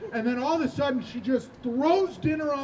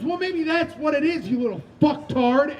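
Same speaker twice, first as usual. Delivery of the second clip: high-pitched angry snap, louder on the insult; mom's parting insult; 5 semitones higher, 4 dB louder than usual. Retold or imitated. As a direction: storm out as the fed-up mother. Mom's parting insult before storming out.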